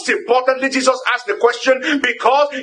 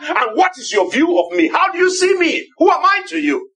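urgent questioning; 5 semitones higher than usual. Acted. Jesus pressing his disciples.

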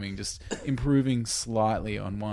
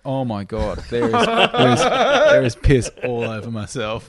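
laughing panic; 9 dB louder than usual. Retold or imitated. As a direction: crack up while freaking out. Retold panicked waking on plane.

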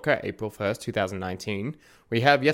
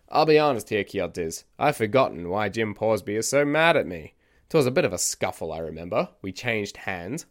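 eccentric storyteller character; 2 semitones higher than usual. Acted. Podcast host voices eccentric narrator.

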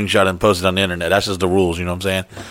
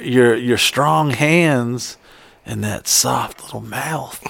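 sleazy; 4 dB quieter, much slower than usual. Retold or imitated. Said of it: "I didn't say that part".

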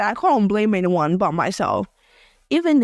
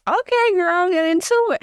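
hyped sassy; 10 semitones higher than usual. Retold or imitated. Retold hyped-up encouragement.

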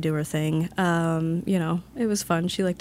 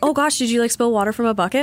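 higher, lightly voiced innocent question; imitated concerned customers; 5 semitones higher, 4 dB louder than usual. Customers asking about the spilled water, imitated innocent concern. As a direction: imitate a puzzled, polite bystander.

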